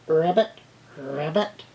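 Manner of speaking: amateur frog croak with a rising end; frog noises. Acted. Teacher drawing a frog, modest frog ribbits. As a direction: try a simple ribbit. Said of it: "making frog noises".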